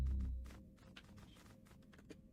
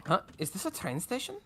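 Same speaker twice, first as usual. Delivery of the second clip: put-on Irish accent; 4 semitones higher, 4 dB quieter than usual. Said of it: "my terrible Irish accent".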